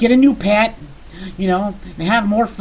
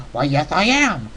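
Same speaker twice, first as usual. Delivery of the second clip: lightly voiced cowboy, pitched low; a hint of cowboy swagger, low; John Wayne; 6 semitones lower than usual. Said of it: "you sound like John Wayne".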